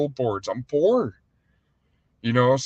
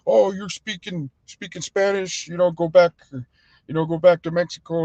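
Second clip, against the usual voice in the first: lightly mocking, higher-pitched indignant voice; mock complainers; 4 semitones higher than usual. People scolding Spanish speakers to go back, lightly mocking. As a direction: imitate people telling someone off. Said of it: "how people are like".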